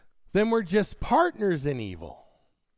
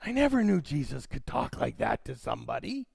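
surprised listener; 8 semitones lower, 6 dB quieter, faster than usual. Retold or imitated. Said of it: "some of you who are surprised".

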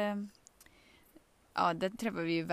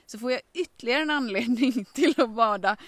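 eager ask; 4 semitones higher, 5 dB louder than usual. Retold or imitated. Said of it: "Jag bara".

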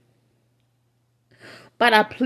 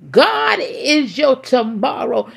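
crying shout; 3 semitones higher than usual. Real, not acted. Cry-shout climax of sermon.

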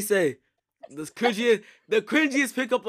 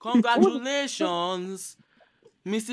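slow, higher mock cheer; mock congratulations; 4 semitones higher, slower than usual. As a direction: stretch it out like a fake toast. Mock celebration.

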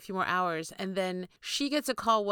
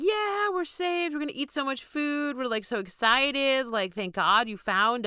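mock excited; 5 semitones higher, 3 dB louder than usual. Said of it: "expecting these people to be like".

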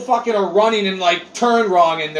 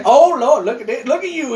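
put-on drugged kid; 5 semitones higher than usual. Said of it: "He's like".

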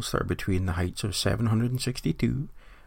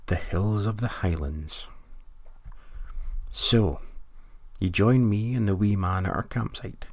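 nature documentary. Acted. Spoof nature documentary narration.

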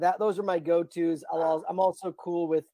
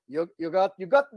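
faltering attempt at an Irish accent; bad Irish accent; 3 dB louder than usual. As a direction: try an Irish accent and give up. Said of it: "I can't do the Irish accent".

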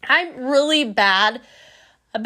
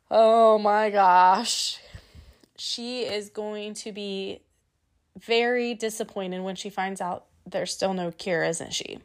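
Craig muttering aside; 3 semitones lower, 4 dB quieter than usual. Retold or imitated. Craig's exasperated aside, voiced.

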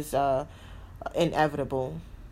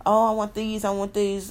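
greedy shopper; 4 semitones higher, 4 dB louder than usual. Retold or imitated. Mocking her old impulse buying.

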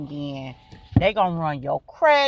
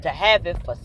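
voicing daddy; 3 semitones lower, 4 dB louder, slower than usual. Daddy reporting his call.

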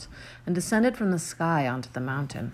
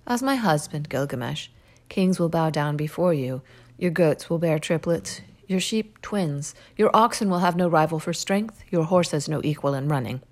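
enticing goddess; 4 dB louder than usual. Acted. Ishtar tempts with riches.

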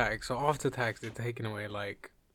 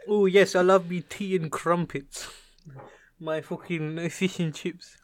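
hammed-up British stereotype, raised pitch; mock British accent; 4 semitones higher, 4 dB louder than usual. Ribbing British friend about their culture, mock British accent. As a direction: parody a British food lover.

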